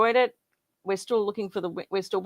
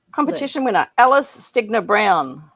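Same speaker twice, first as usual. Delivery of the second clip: hyped giveaway announcement; 6 dB louder than usual. Acted. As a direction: announce the winner like a prize show. Drum roll, announcing winner.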